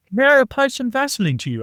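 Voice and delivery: high, polite mock German accent. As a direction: ask like a hammed-up German buddy. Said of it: "Still working on my German accent".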